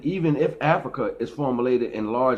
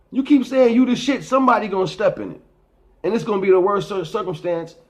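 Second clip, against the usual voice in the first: emphatic warning; 9 semitones higher, 6 dB louder than usual. Real, not acted.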